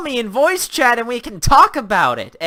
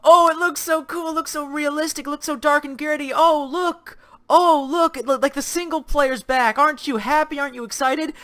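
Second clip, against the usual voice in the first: mock hyped fan; 6 semitones higher than usual. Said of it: "everyone's just going".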